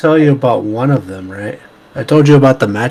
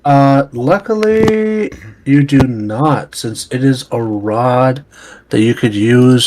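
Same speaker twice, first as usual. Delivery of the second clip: smooth car salesman pitch; schmoozing. Acted. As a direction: sell it like a used car salesman. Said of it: "I love your car salesman voice".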